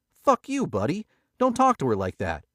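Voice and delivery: loud, high furious snap; angry outburst. A narrator's reading. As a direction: defend her, spitting it out. Billy confronting pit boss.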